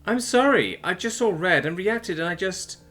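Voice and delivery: very high, slowing tearful apology; blubbering apology. A narrator's reading. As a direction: trail into weepy excuses. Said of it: "began to blubber anyway".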